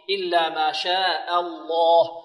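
slow chant with a thin, light أ opening الله; light hamza. Shown as a demonstration. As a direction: keep the hamza of الله light after a long شاء. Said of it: "نرقق همزة". (ترقيق همزة الله)

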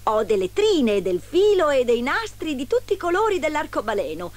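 high, singing sales patter; false pedlar. A narrator's reading. Disguised queen offers her wares, pedlar's lilt. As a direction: list the wares in a rising, enticing lilt. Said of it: "rispose la finta merciaia".

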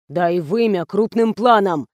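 ordinary delivery

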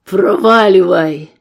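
slow loud bark; yell. Acted. Gunman yelling at the old man to get lost. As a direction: roar him away. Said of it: "и заорал".

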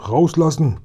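high, demanding call; captive calling out. Acted. Locked-in policeman demands release from the boys, high-pitched call. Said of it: "rief die Stimme".

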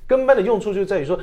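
speaking through a real laugh; 笑着说. Real, not acted. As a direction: chuckle the words out. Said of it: "好像也蛮有道理的".

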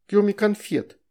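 put-on high baby-talk promise; lisping child. A narrator's reading. Veronika promising, high lisp. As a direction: say it like a small child.

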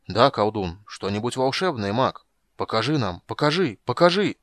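chanting crowd jeering the mage; crowd taunt. Acted. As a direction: build the jeer each time.

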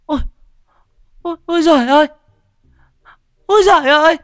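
put-on old woman screaming for the neighbours; wailing old woman. A narrator's reading. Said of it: "tiếng bà Cách rú lên".

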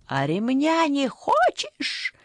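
high, slow shouted threat; мать угрожает криком. A narrator's reading. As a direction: bark the threat at the boy. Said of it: "выкрикнула Татьяна".

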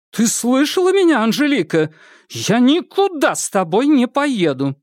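defiant outburst. Acted. Irma refuses to go with Angelika, high and defiant. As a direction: stand your ground at last. Irma defies her sister.

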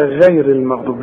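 "غير" with thin gh; wrong light ghain. Retold or imitated. Teacher quotes readers before correcting, thin gh in "غير". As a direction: mimic the mistake, light gh in "غير". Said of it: "لا يا سيدي".

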